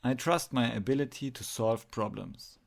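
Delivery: affirmation stated clearly and firmly; leading affirmation. Shown as a demonstration. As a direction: state it for others to repeat. Repeat the following affirmations to yourself.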